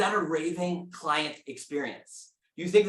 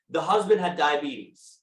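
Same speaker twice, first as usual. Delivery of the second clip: hint of Wilford Brimley; slower than usual. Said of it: "I keep hearing Wilford Brimley in my head".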